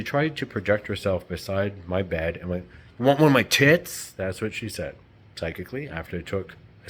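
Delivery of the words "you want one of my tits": loud, higher-pitched mocking offer; mimicked taunt. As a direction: throw it out loudly, imitating her.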